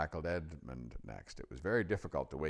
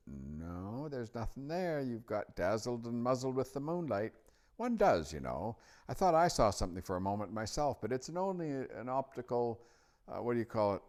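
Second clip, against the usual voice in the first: put-on high-pitched, louder know-all boy; doubting Edmund; 8 semitones higher, 5 dB louder than usual. A narrator's reading. Edmund tells Lucy it was moonlight, dismissive. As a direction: explain it away in a high boyish voice.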